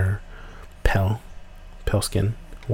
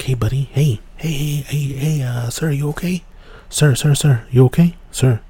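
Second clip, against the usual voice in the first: calling out; 5 semitones higher, 3 dB louder than usual. Retold or imitated. Calling out to stranger on trail.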